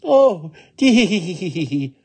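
high "oh", then rippling giggle; tittering laugh. Acted. Funny little woman hearing of the Oni, high tittering. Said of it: "laughed the funny little woman".

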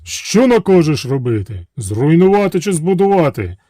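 a hint of booming genies; genies awaiting orders. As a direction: ask the master for a command.

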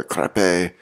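"crappe" said as French, ending in "ay"; French pronunciation. Shown as a demonstration. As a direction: give "crappe" an attempted French ending, "crap-PAY". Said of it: "sounds more elegant if I'm saying it right".

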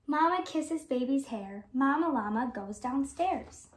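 lively picture-book read-aloud; gentle sing-song storybook reading; reading to children. Acted. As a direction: read it like storytime for little kids.

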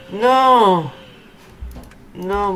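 sudden high shocked no; dismayed cry. Real, not acted. Sandwich ruined in game.

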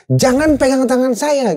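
high, slow emphatic command; clear instruction. Retold or imitated. Survivor ordering a panicking man off him, high-pitched firm command. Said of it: "instruksi jelas tuh".

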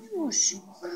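high loud sing-song name call. Real, not acted. Calling the pet. (высокий зов)

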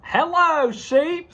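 a light high duck voice; chirpy greeting as the duck. Acted. Mom voicing Duck greeting Sheep, lightly high.

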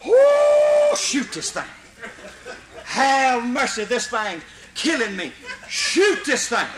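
high whoop, then slow pleading cries; John begging Mister Barron to shoot; desperate hollering. Retold or imitated. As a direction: beg to be saved, half laughing. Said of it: "he kept hollering".

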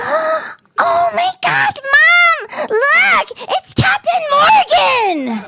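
put-on squealing little girl, very high and shouting; a thrilled kid shrieking at her mom; high-pitched delighted shriek; excited child.

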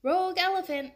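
a banana seller shouting about the runaway elephant; shouted alarm. A narrator's reading. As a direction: raise the alarm in the market. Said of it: "a banana seller shouted".

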